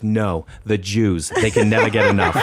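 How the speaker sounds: laughing through the quote. Retold or imitated. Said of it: "she goes".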